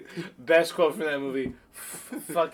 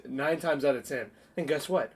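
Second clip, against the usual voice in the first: usual speaking voice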